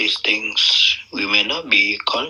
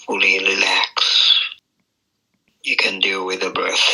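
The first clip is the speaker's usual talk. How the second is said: measured meditation guidance with long pauses between phrases; guided meditation. Real, not acted. Teacher guiding meditators into the present moment, unhurried meditation voice. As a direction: ease them into the breath, phrase by phrase.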